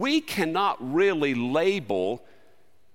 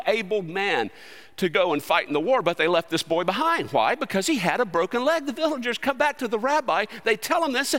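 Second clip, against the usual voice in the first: usual speaking voice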